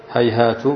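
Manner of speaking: هيهات ending in a short "tu"; final ta with damma. Shown as a demonstration. Teacher shows students the second ta vowelling, هيهات said "hayhaatu". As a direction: say هيهات as "hay-HAA-tu", rounded final vowel. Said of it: "بتثليث التاء الفوقية".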